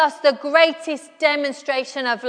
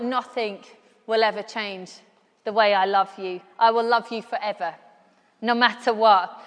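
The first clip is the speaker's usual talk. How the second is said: tender reassurance; 5 semitones lower than usual. Retold or imitated. Mother reassuring her sorry son that her love stays, tenderly. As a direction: soothe a sorry little boy.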